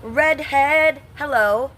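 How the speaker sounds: high, loud, bright call out; excited greeting. Real, not acted. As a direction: sing out the greeting to the chatter. Greeting chatter who shouts redhead.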